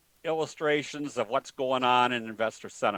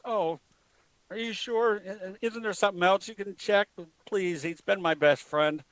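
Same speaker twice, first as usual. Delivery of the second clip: put-on higher, pleading old lady voice; 5 semitones higher than usual. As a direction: beg the vet like a worried pet owner. Joke: pleading lady at vet.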